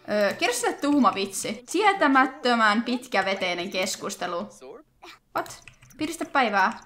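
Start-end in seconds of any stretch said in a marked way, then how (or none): none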